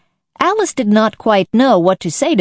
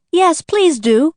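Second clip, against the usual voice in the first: slow, higher pleading voice; 10 semitones higher, slower than usual. A narrator's reading. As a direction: beg them sweetly. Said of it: "pleaded Alice".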